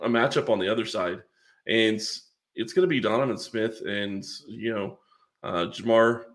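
slightly rough, itchy throat; talking through a tickle in the throat; frog in throat. Real, not acted. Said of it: "my throat is a little itchy".

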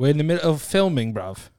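quick put-on British accent. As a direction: protest like a matey Brit, British accent. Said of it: "you have to do British accent".

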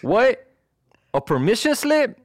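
lilting Mexican-American cholo voice; cholo accent. Acted. Cholo doctor refusing a permission slip, insistent Mexican-American accent. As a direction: play an insistent cholo with a swinging lilt. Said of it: "do that call in a cholo".

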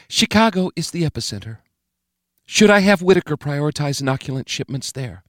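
the President conferring privately with Murray; President asking. A narrator's reading.

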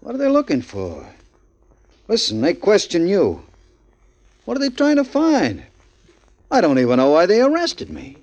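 a scared man begging for answers; nervous panic. Acted. Frightened man questioning a cellmate.

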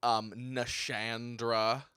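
slow, low, put-on sultry tone. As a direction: purr the name slowly. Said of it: "our sultry voices".

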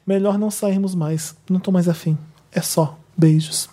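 slowed-down reading of a curt breakup message; slow dry text quote. Retold or imitated. Reading the ex's breakup text to friends, slowly and coldly. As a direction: drag out the cold goodbye. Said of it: "E no mesmo minuto mandou".

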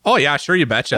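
a light Minnesota-Scandinavian lilt on the vowels; Minnesota accent. Pretend. Friend riffing on a Fargo trip in a light Minnesota accent. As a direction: play a folksy Upper Midwest local. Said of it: "Canadian accent with a little bit of Scandinavian".

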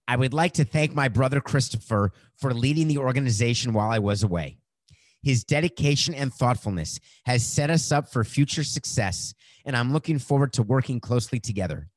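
rushed without a breath; all in one breath. Shown as a demonstration. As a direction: read the whole tweet without pausing for air. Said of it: "I'm out of breath".

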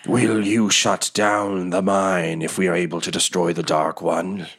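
lightly voiced creature, pleading sincerely; earnest creature. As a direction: ask earnestly in a strange creature's voice. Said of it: "it asks you very earnestly".

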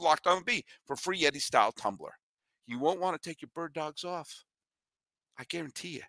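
lively host ad read for shorts. Acted. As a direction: sell the product to a friend. Host reads sponsor ad.

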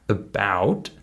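"about" opening on a weak "uh"; unstressed first syllable. Shown as a demonstration. Teacher showing the unstressed syllable in "about", reduced to schwa. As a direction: reduce the start of "about" to a schwa, stress the rest. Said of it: "that first syllable is unstressed".

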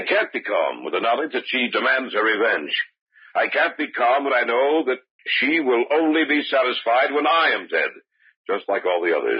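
rising panic. Acted. Henry frightened, telling George he can't calm down. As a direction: let the terror build to a cry.

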